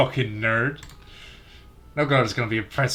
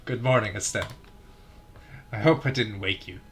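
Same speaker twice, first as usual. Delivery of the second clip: second try at Estelle's voice; 2 semitones lower, 3 dB quieter than usual. Shown as a demonstration. Retrying Estelle's morning greeting to Joshua, softer. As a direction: try the girl's hello again, gentler. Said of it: "I can't keep doing it that way".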